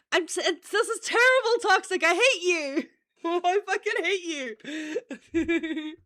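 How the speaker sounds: loud, laughing through the words in mock outrage; real laughter in a playful loud complaint; laughing outburst. Real, not acted. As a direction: crack up while protesting at a friend. Cracking up at a viewer's donation.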